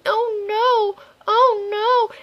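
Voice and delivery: high, hammed-up panic; mock panic. Player in mock panic as Pokemon hits itself. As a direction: squeak it in mock alarm. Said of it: "I'm like".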